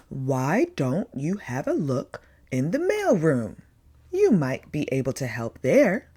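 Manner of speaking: gentle Santa, kindly suggesting; kind suggestion. A narrator's reading. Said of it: "he suggested kindly".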